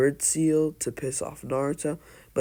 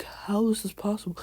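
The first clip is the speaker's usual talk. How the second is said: higher-pitched, mildly amazed question; incredulous question; 6 semitones higher, 3 dB quieter, faster than usual. Retold or imitated. Imagined reaction to Naruto's storm release, higher-pitched disbelief. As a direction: ask it in raised-pitch disbelief. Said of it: "so then you're like".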